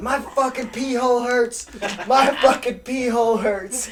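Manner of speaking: yelling out in pain. Retelling pulling something out in the ER at dawn, retelling a pained yell. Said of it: "I just start yelling".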